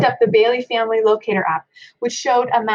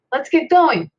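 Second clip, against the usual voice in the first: dad shouting; 6 semitones higher, 5 dB louder, slower than usual. A narrator's reading. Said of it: "he shouted".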